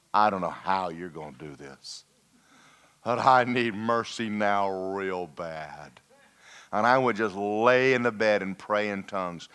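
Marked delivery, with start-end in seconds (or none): 0.1-6.0 desperate prayer. Retold or imitated. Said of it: "I went to God".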